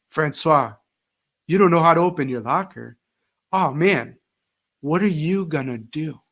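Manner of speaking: calm, lightly dramatic sympathy; teacher calmly handing the locker problem back to the student, mock-concerned. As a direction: hand the problem back with gentle fake dismay. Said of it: "instead of me going and solving that problem".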